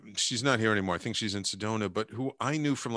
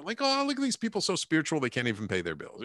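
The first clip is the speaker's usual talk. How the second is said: mocking wife; 6 semitones higher, faster than usual. Wife mocking spiritual people.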